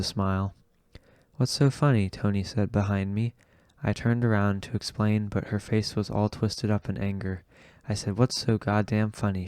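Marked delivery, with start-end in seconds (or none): 1.4-2.1 a sharp angry question, pitched up; angry challenge. Acted. Tony demands an answer from the narrator, angry. 8.2-9.5 angry demand. Acted. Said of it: "she demanded".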